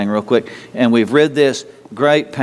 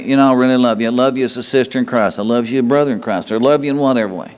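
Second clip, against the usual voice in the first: sincere; faster than usual. Shown as a demonstration. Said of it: "look someone in the eye and say".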